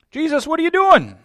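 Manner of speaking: high, loud astonished question; puzzled asking. Acted. Onlooker asking Jesus about the whip, high and astonished. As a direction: ask it like you can't believe it. Onlooker asks again, higher.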